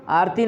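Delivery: आरती clipped to आर्ती; the wrong आरती, र merged; आरती as आर्ती, quick; wrong pronunciation. Shown as a demonstration. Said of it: "आरती नहीं है".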